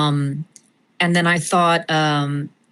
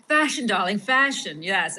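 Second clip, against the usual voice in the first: Pamela; 3 semitones higher, 4 dB quieter than usual. Acted. Actress demonstrating her fashion character's accent, affected and pretentious. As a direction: purr it in a pretentious society accent. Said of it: "how you got the accent going".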